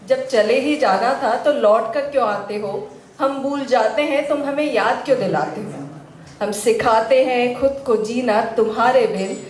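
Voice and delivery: rhythmic verse of gentle reproach, pausing after each line; poem recitation. Acted. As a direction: recite it as a lover's lilting complaint. Recites poem on broken love. (शायरी सुनाने के अंदाज़ में)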